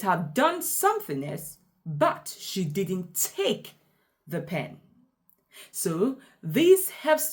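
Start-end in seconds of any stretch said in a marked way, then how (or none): 2.4-4.8 slow, with "take" drawn out, pause, "the pen" dropping away; stress on TAKE. Shown as a demonstration. Teacher explaining what the stressed word means, stress on "take". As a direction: hold "take", then let "the pen" fall softly. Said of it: "I emphasize take".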